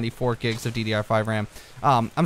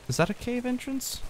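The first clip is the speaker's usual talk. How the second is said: excited hope; 10 semitones higher, 8 dB quieter than usual. Real, not acted. Spots a possible cave.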